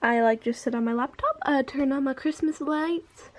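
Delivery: lisping around a retainer; wearing a retainer. Real, not acted. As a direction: talk with a retainer in. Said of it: "I'm talking funny because my retainer's in".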